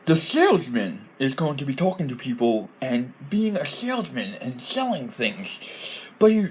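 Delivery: high, silly goblin voice; goblin accent. Shown as a demonstration. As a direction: talk as a comic goblin with a high, swooping pitch. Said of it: "all goblins sound like this".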